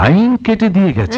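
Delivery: high, incredulous angry question; flaring up. Acted. Husband learning the power was cut, flaring up. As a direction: echo the news in rising outrage. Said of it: "তুমি আবার খেপে গেলে কেন".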